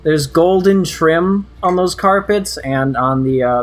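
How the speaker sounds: slow, drawn-out description with long pauses; game master's scene setting. Acted. Game master walking players into a shabby-rich room, slow scene setting. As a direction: set the scene slowly, phrase by phrase.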